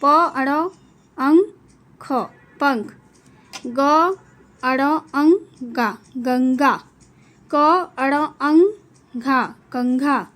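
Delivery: drawn-out blending of sounds into a word; slow spelling out. Shown as a demonstration. Teacher to class, sounding out words with anusvara, slowly. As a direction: build गंगा and कंघा syllable by syllable, slowly. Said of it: "इस तरह का हम इसको बोलते हैं".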